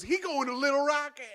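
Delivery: high, sing-song mock mom; hammed-up older lady speaking for him; motherly lady voice. Driver relays to clerk.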